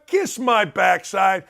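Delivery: defiant shout. Real, not acted. Radio host slowly shouting at his critics.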